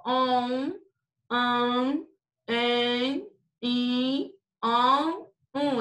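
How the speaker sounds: each nasal vowel held alone, slightly rising. Shown as a demonstration. Teacher showing pupils the nasal sounds, drawn-out nasal vowels. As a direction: sustain each vowel through the nose, one by one. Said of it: "é o som que sai da, do, o som nasal".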